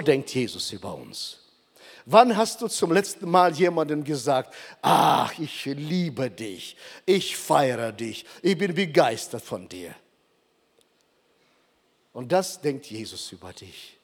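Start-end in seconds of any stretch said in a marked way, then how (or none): 4.8-9.9 leise, langsam und zärtlich. Acted. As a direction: murmur it gently to someone you love. Example of telling someone.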